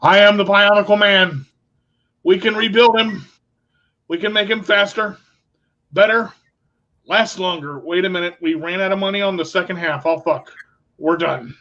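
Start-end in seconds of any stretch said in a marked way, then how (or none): 0.0-7.8 mock hero. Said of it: "I'm like".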